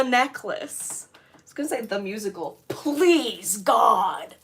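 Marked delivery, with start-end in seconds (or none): 2.7-4.3 pleading prayer. Real, not acted. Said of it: "bring us Pinkie Pie the musical".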